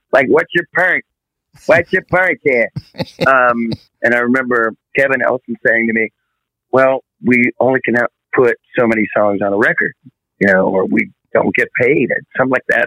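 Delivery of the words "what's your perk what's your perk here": exaggerated, high-pitched cartoon New York accent. Recalling how he used to phrase a question, in a cartoon New York voice. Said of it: "it would be like a cartoon New York voice".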